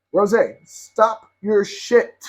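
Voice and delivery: sharp, slow scold at the dog; real annoyed scolding. Real, not acted. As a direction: tell the dog off firmly. Scolding the dog mid-video.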